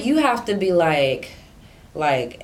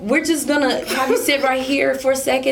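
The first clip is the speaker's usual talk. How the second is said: sudden sweet politeness; 3 semitones higher than usual. Retold or imitated. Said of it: "he went from ten, yes, to".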